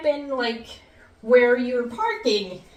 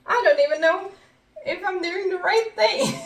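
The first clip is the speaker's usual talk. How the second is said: more frantic repeat; 5 semitones higher than usual. Retold or imitated. Repeated worried quote, second take.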